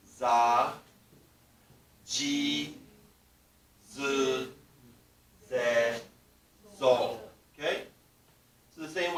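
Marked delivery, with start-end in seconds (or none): 0.1-7.2 za, ji, zu, ze, zo loud and spaced; loud recitation. Shown as a demonstration. Teacher leading the class in saying it together. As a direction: call out za, ji, zu, ze, zo for repeating. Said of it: "let's say it together".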